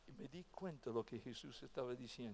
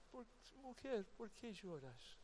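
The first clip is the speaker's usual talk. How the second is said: much softer, tender and hushed; gentle question; 6 semitones higher, 7 dB quieter than usual. Acted. Jesus softly asks weeping Mary why she cries, hushed and tender. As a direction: ask gently, as if not to startle her.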